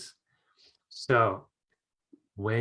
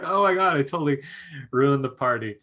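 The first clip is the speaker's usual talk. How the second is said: laughing mock dismay; 2 semitones higher, 5 dB louder than usual. Teacher telling students she ruined the party, laughing in mock horror. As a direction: laugh through a playful horrified thought.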